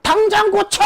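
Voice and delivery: very high, strained pretend yell; bellowed mock order. Company chairman demanding a fix over the phone, yelling. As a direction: burst out with it like an enraged boss. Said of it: "소리를 버럭버럭 지르면서".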